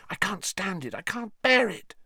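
high, strained panic; distraught. Acted. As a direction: voice climbing towards tears. Hermione distraught near execution.

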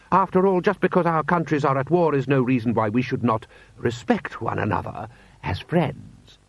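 high lordly opening, easing down; haughty lord. Acted. Lord Rust offers courtesy to an enemy, haughty.

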